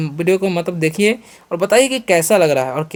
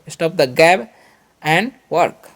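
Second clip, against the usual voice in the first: chunked slowly; much slower than usual. Shown as a demonstration. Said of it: "ऐसे बोल सकते हैं".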